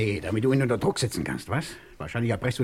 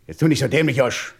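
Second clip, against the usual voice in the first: angry rebuke; 6 dB louder than usual. Acted. Threatening Josh over the ring.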